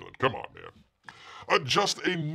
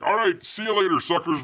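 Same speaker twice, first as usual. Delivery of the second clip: higher, louder gloating goodbye; mock Musk farewell; 8 semitones higher, 4 dB louder than usual. Elon Musk leaving for Mars, mock gloating farewell. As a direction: wave them off smugly. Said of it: "Elon Musk is like".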